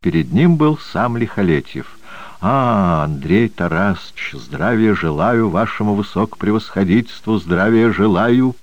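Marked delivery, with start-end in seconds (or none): 2.4-8.6 fawning. Acted. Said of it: "угодливо расшаркался Железноградов".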